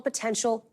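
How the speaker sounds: "potential" set off with deliberate weight; stress on potential. Real, not acted. Anchor qualifying the turning point for viewers, stress on "potential". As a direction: lean on the word "potential". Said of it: "Emphasis on the word potential".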